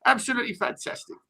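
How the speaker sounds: lightly voiced Harry, chummy old manager bigging himself up; a hint of Redknapp's patter; Harry Redknapp impression. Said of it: "Harry Redknapp, you smashed it".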